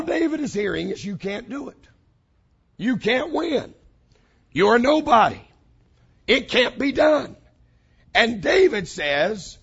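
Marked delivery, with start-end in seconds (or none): 1.0-7.4 taunting critics. Retold or imitated. Critics' taunts, building loud.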